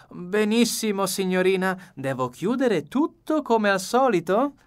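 the butler performs loudly for the listener. A narrator's reading. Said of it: "alzando la voce in tono quasi teatrale".

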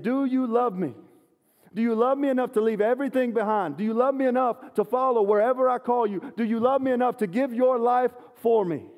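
high, loud, pleading questions; Jesus asking. Retold or imitated. Jesus presses his disciples, high and loud pleading. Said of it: "That's why Jesus is saying".

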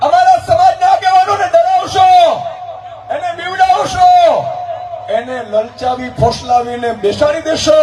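rally speech. Acted. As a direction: rouse the crowd like a campaign orator.

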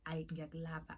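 imitating a hushed crush confessing; soft confession. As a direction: quietly confess your feelings, a touch imitated. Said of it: "she was stressing how much she liked me".

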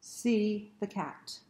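put-on slow, sing-song read to children; read-aloud narration. A narrator's reading. Librarian reading a book to kids, slow and sing-song. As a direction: read it slowly, like to little kids.

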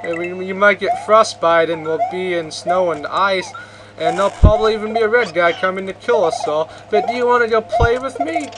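voicing Chuck. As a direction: plead like an oblivious jock asking friends to play. Voicing Chuck inviting friends.

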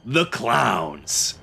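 high, showy ringmaster announcement; Joker ringmaster voice. Acted. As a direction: grandly welcome the crowd, slowing at the end. Joker as ringmaster opens show.

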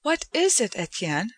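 put-on concerned young woman asking; Joanna's voice. A narrator's reading. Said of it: "she said".

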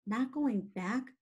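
slow, mildly stunned question; dismayed cry. Acted. Wilbur to Charlotte, hearing she won't go home, dismayed. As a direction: stretch it out in disbelief, not shouted. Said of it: "he cried".

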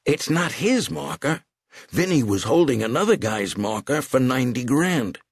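high, eager explaining; lightly voiced old bookmaker. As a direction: sell the deal nervously.

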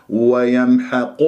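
slow ويمحق with قا rounded toward قو; rounded qaf. Shown as a demonstration. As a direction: show the lip-rounding error on ويمحق. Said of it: "هذا التكوير نتخلص منه".

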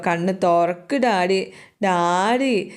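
slow, drawn-out mock-tearful call; lightly acted pleading, stretching the words; crying plea. Child at father's bedside begging him awake, mildly tearful. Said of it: "എന്ന് വിളിച്ച് കരച്ചില".

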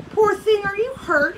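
high-pitched, concerned storybook question; gently asking. A narrator's reading. Lion to the fallen mother, gently concerned. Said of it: "he gently asked".

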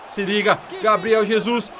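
shouting at the screen; excited shout. Real, not acted. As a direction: yell the name, thrilled. (grito empolgado)

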